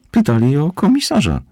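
high, loud, huffy character voice; snorted reply. A narrator's reading. Barmaid moth reports to the commissioner, huffily. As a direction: pitch it up in a huff. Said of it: "prychnęła ćma barowa".

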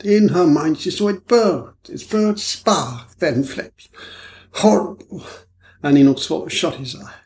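lightly voiced fretful man, slow at times; over-explaining, nervous; a hint of a jittery foreigner; anxious foreign gentleman.

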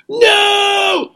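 long, high wailed no; mock shocked cry. Host retelling couple's reaction to friend, high mock-shocked wail. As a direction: stretch it out high in mock disbelief.

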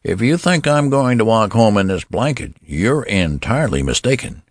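put-on high-pitched, indignant old man. Old man protesting to nurse.

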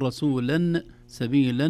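"رسولا سبيلا" with an n sound ending each word; tanween endings. Shown as a demonstration. Teacher showing the unpaused form, "رسولا سبيلا" ending in -an. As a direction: say "رسولا سبيلا" as rasulan, sabilan. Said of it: "بدل ما نقول".

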